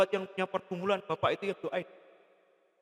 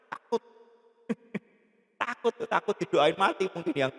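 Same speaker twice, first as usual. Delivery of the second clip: normal talking voice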